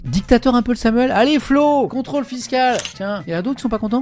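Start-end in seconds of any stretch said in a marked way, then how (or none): 0.0-2.8 loud mock dictator. Playful dictator rant.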